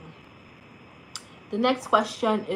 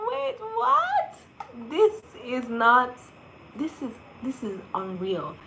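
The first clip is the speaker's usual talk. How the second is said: stunned disbelief; 5 semitones higher, slower than usual. Retold or imitated. Inner voice beside Gabriel, stunned then awed. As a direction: gasp then trail off in awe. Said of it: "I'm just like".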